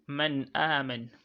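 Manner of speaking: slow "Man aman", clear n released into a long "a"; nun without emphasis. Shown as a demonstration. Teacher giving the example, unemphasised n in "Man aman". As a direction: recite "Man aman" with no weight on the n. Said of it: "without laying emphasis on the nun".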